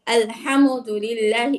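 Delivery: আলহামদুলিল্লাহি with a rising jolt at the end; wrong push. Shown as a demonstration. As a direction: demo the added echo sound. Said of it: "অনেক রকম ধাক্কা বা পাল্টা আওয়াজ". (পাল্টা আওয়াজ দিয়ে ভুল)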